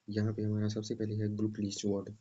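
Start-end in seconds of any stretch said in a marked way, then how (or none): 1.4-2.1 ग्लूकलीज as German glücklich; ग्लूकलीज with a clear German ü. Shown as a demonstration. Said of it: "अच्छे से pronunciation करना है".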